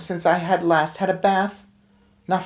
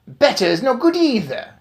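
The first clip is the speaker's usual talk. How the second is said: much higher, louder shriek; witch shriek; 9 semitones higher, 5 dB louder than usual. Acted. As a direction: crush the excuse. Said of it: "shrieked the Grand High Witch".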